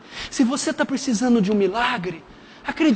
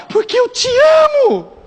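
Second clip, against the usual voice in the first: father's love; 13 semitones higher, 3 dB louder than usual. Acted. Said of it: "father answers the prodigal son".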